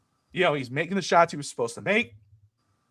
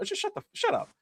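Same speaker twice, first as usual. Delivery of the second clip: mock shrill shut up; 6 dB quieter than usual. Mocking pundit outrage.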